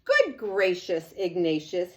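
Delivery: loud gasp of surprise from the mother; a mother amazed at her toddler; exclaiming mother. Acted. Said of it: "his mother exclaimed".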